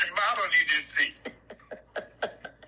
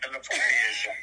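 laughing yell; 6 semitones lower, faster than usual. Real, not acted. Host mocking guest's visions.

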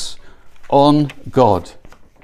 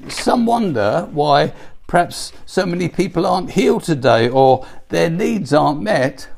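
ordinary talk

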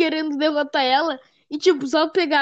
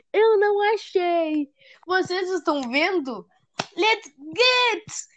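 higher, slow mock cartoon voice; imitating the monkey; 5 semitones higher, slower than usual. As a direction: play the clueless cartoon monkey. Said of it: "Ele acenou pro raposo e disse".

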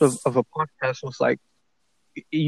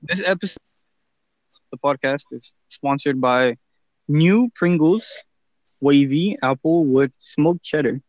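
ad read. Pretend. Mock sponsor read.

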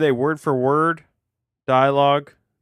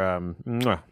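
chef's kiss; 3 semitones lower than usual. Shown as a demonstration. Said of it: "did a little kiss".

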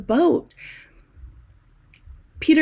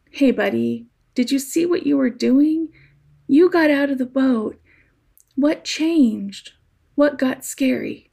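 tender; 3 semitones higher than usual. Retold or imitated. Jesus comforting frightened Peter, gentle encouragement. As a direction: coax him kindly like a friend. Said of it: "like calling a kid little one".

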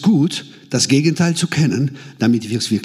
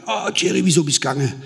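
mock dismay, starting high; dismayed friend; 4 semitones higher, faster than usual. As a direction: lightly imitate a friend's high-pitched complaint. Voices friend's dismayed phone call. (gespielt bestürzter Freund)

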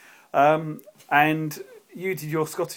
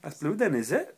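questioning Welsh tag at the end; attempted Welsh accent; 2 semitones higher than usual. Shown as a demonstration. Friend showing how Welsh people question things, Welsh accent attempt. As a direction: state it, then question it in poor Welsh. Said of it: "That was Welsh, obviously".

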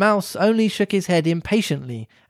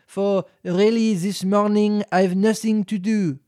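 slow storybook recital of a poem; measured sing-song poem read; 3 semitones higher, slower than usual. A narrator's reading. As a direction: read it out slowly like a rhyme. Reads the mouse's tale poem.

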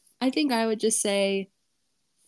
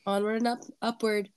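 blocked nose, stuffy voice; 4 dB quieter, faster than usual. Real, not acted. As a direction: speak through a snotty head cold. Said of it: "Sorry about my snotty, stuffy voice".

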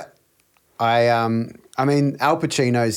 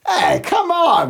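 much higher, slow nervous plea; 5 dB louder, much slower than usual. Retold or imitated. De Niro's character pleading nervously with Hoffa, high and slow. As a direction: squeak it out nervously, drawn out. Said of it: "Well, he's nervous".

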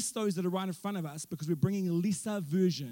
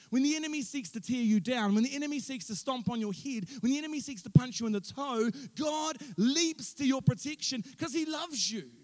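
rising preaching fervor; 2 semitones higher than usual. Acted. Preaching climax, building intensity.

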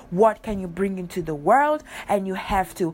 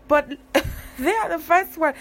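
indignant realization; 5 semitones higher, 3 dB louder than usual. Retold or imitated. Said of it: "stop for a second and think".

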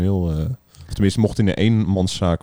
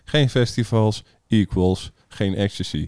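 imitating minister Grapperhaus; 4 semitones higher than usual. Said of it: "Dat hij zei".

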